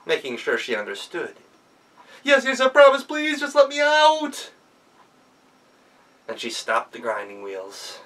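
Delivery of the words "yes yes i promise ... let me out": much higher, whiny, desperate pleading; begging goblin. Acted. Trapped goblin begs the girl, high and desperate. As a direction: bargain desperately for release.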